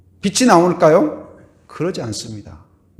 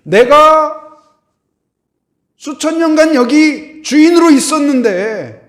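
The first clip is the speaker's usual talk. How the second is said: higher, louder mock protest; indignant darkness as owner; 8 semitones higher, 6 dB louder than usual. Darkness scolding the light for barging in, acted indignation. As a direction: play an affronted owner challenging an intruder. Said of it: "어둠이 주인처럼".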